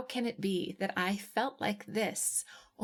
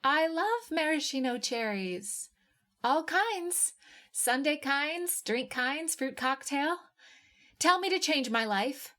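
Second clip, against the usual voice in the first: gushing; 6 semitones higher than usual. A narrator's reading. Gushing about cherries.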